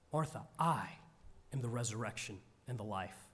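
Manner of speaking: a hushed, quick read of the words; soft scripture line. Acted. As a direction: let it drop low and gentle. Quiet read of Jesus' words.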